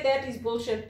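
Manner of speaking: "That" stressed, throwing the complaint back. Retold or imitated. Zimbabwean answering a rude customer back, firm retort stressing "That". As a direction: retort with the weight on "That". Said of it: "we'll say".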